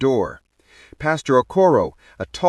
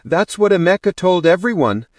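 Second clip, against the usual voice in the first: raised, hesitant explanation left hanging; trailing off; 6 semitones higher, 3 dB louder than usual. A narrator's reading. Bridesmaid repeats the groom's claim, trailing off. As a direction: break off as if unsure. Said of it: "she trailed off".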